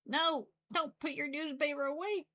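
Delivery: alarmed shout. Real, not acted. Yelling at game character.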